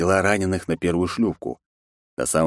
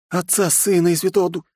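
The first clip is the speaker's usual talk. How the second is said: frightened praying; 12 semitones higher than usual. A narrator's reading. Terrified boy keeps praying, cut off.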